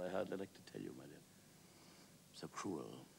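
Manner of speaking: hushed, understated outrage; confiding Wilde. Acted. Plays Wilde confiding in Sphinx.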